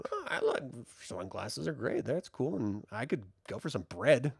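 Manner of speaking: starving recruits answering the queen, softly and sheepishly; mock timid crowd. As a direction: play a meek crowd going along with it.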